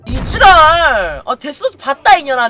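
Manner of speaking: angry outburst. Retold or imitated. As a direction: snap back at the noisy customer. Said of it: "inner outburst". (시끄러운 손님에게 화내며 욕하듯)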